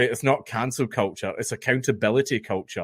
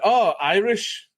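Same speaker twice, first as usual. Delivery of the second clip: higher, drawn-out mock guess; imitating curious Americans; 6 semitones higher, much slower than usual. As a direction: draw it out like a surprised American tourist. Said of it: "so many people going like".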